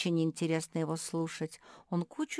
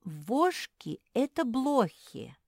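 slow, pensive drawl; musing, drawn-out; thoughtful drawl; 8 semitones higher, 6 dB louder, slower than usual. A narrator's reading. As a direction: drag the words out thinking. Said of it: "задумчиво протянула Мафи".

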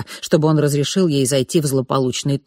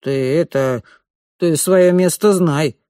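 grumbling; 3 dB louder, slower than usual. Acted. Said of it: "буркнул".

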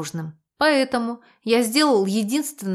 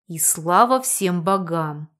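through teeth; 3 semitones lower, slower than usual. Acted. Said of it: "процедил я".

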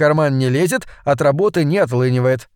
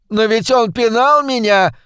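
higher and slow, mock wail; 8 semitones higher, 3 dB louder than usual. A narrator's reading. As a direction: wail it out like a wronged child. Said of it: "взвыла жертва".

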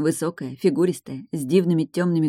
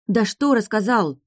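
thundering; 5 semitones higher than usual. A narrator's reading. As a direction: roar at the old mage. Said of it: "громыхнула я". (громко и сердито)

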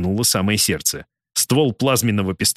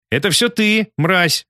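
higher, louder hateful cry; furious outburst; 8 semitones higher, 3 dB louder, slower than usual. A narrator's reading. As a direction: spit the insult at him. Kim screams at the president.

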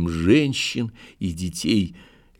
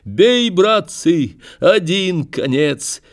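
high, loud cries, words drawn out; wild, frenzied shout; 9 semitones higher, 5 dB louder, slower than usual. A narrator's reading. Grandson urging his brothers to shoot, wild frenzied shout. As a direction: call out in a frenzy to rally them. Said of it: "закричал он диким, исступлённым голосом".

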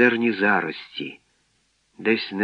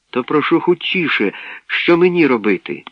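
put-on higher, anxious boy's plea; urgent boy; 6 semitones higher, 4 dB louder than usual. A narrator's reading. Boy begs robot to hurry, anxious. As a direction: plead for haste, pitch lifted.

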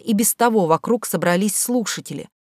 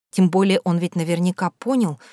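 ordinary delivery, nothing marked

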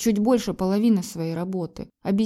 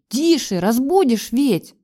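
higher, louder hushing shout; sharp rebuke; 5 semitones higher, 6 dB louder, slower than usual. A narrator's reading. Wife snapping at husband not to wake the kids, sharp. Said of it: "прикрикнула на него я".

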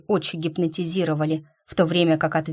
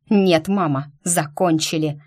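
bark. Acted. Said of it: "рявкнул он".

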